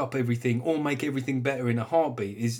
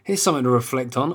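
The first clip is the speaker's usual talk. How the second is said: voice of the world; 2 semitones higher, 5 dB louder than usual. Retold or imitated. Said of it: "The world goes".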